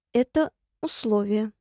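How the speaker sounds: straining, short of breath; puffing with effort. A narrator's reading. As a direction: puff it out with effort. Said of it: "пропыхтела я".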